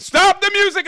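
very high, very loud yell to halt the band; shouting over a party. Retold or imitated. The guy halts the wedding band, yelling. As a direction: yell it across a crowded room. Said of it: "And he's like".

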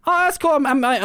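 mock Jules. To the burger guys, a hammed-up Jules. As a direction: fake delight over the burger. Jules voiced in retold scene.

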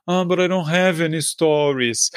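whining complainer voice; whiny moan. Retold or imitated. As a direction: moan it like a sulky whiner. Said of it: "that moan of like".

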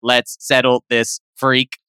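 a hint of a low robotic voice; broken computer voice. Laura's ghost challenging the monster, low mock robot. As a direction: lightly play a glitchy machine. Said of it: "in a broken computer voice".

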